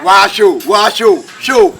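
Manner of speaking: loud insistent street call. Real, not acted. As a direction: call it out loud over the crowd. Street haggling, calling out loudly.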